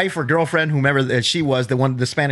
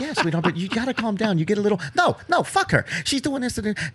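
put-on higher, softer soothing girlfriend voice; placating girlfriend; 5 semitones higher, 3 dB quieter than usual. Girlfriend calming her angry boyfriend, hushed and higher. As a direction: hush him like a worried partner.

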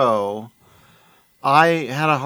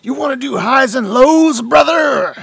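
higher, louder wrestler promo; 10 semitones higher, 6 dB louder than usual. Acted. Podcaster asking highs and lows in wrestler voice. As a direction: hype it like a wrestler.

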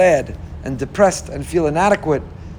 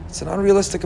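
ordinary talk

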